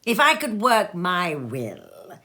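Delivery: slow, pressed indignation; indignant. Acted. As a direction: hold back the outrage. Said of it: "said Scrooge indignantly".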